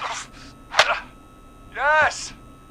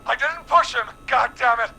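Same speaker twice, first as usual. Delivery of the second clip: angry denial; 3 semitones higher, 5 dB louder, faster than usual. Acted. Accused son defends himself angrily.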